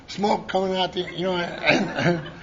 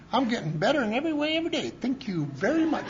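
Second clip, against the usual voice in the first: rattled-off mantra; 4 semitones higher, 5 dB quieter than usual. Retold or imitated. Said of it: "you're gonna say".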